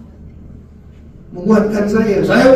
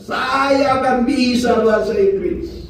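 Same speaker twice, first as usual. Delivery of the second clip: slow, rising shouted vow, much higher by the end; slow defiant yell of "saya akan bisa"; retold shouting declaration; 4 semitones higher, slower than usual. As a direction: shout the promise in faith, stretching "bisa". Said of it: "saya teriak-teriak di atas".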